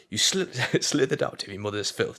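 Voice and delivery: hint of a contemptuous film villain; lightly acted taunt, broken by a laugh; Daniel's goading tirade. Acting out Daniel's insults to Eli, mock goading. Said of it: "he goes like this".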